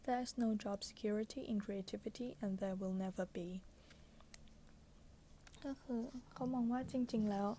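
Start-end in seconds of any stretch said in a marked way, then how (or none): 0.0-3.5 pillow talk. Acted. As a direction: read it like a bedtime whisper. Reads book passage softly.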